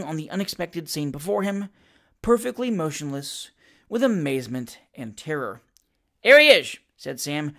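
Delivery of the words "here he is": loud, high gleeful cry; great glee. A narrator's reading. Sam greets the man just walking in, gleeful. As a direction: burst out with delight, pitched high. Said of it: "rising with great glee".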